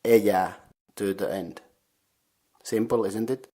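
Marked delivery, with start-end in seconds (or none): 0.0-0.5 "eja" set apart as a suffix; demonstrated word ending. Shown as a demonstration. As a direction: say "eja" clearly on its own after a pause. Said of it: "and then you add".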